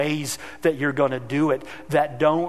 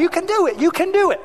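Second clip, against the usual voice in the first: high, loud cheering yell; yelling encouragement; 14 semitones higher, 3 dB louder, faster than usual. Retold or imitated. Dad yelling to his kid on the bike, high cheering. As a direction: shout it after the wobbling bike. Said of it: "yelling at them".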